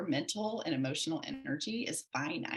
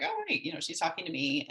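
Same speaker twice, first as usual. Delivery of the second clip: sudden realization; faster than usual. Retold or imitated. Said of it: "I was realizing, like".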